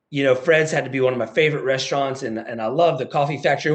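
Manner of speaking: butter up the caller with warm enthusiasm; mock salesman charm; eager friendly seller. Role-plays friendly small talk.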